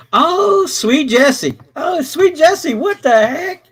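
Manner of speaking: high, loud, joyful exclamation; delighted greeting. Real, not acted.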